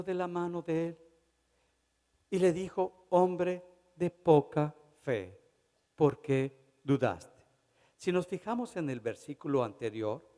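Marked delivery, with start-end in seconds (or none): 3.1-7.4 Jesus rebuking. Acted. Preacher voices Jesus rebuking Pedro.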